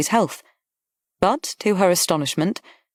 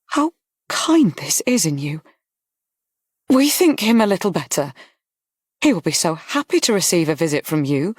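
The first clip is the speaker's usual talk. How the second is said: moved; 2 semitones higher than usual. A narrator's reading. Woman thanking the Duke for visiting, mildly moved. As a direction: let a touch of grateful feeling through. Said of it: "in a moved voice".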